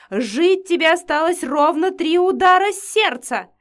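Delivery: loud, high yelled curse; screamed threat. Acted. Vampiress yells after the running girl, screaming. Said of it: "вопила она мне вслед".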